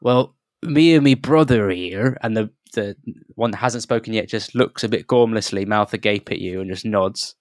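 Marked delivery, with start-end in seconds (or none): 0.0-2.2 a lightly voiced nervous halfling, higher; flustered halfling. Halfling prospector apologising to the travellers, lightly voiced and flustered. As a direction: babble apologies in a fretful little voice.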